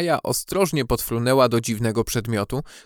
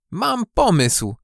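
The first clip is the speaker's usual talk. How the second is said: high, drawn-out bright-idea cry; calling out; 8 semitones higher, slower than usual. A narrator's reading. Maja has an idea for her day, excited call. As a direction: call it out with sudden eagerness. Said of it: "zawołała".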